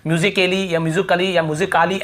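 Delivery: "musically" said three ways with a full vowel before the ll; wrong silent-A readings. Shown as a demonstration. Teacher asks students if they say it so, mispronouncing "musically". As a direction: sound out the A in "musically" as e, then a. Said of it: "ऐसे हो रहा है क्या".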